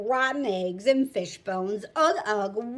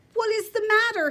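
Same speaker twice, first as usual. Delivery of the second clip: stern official; 8 semitones higher, 4 dB louder than usual. Acted. Magistrate voiced in read story.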